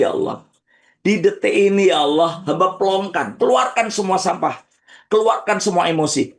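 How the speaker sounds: fervent repeated prayer; preaching prayer. Acted. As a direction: urge them to forgive with force. Leads forgiveness prayer.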